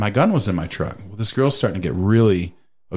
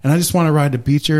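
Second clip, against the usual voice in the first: mock sob story; 6 semitones higher, 3 dB louder than usual. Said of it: "is like".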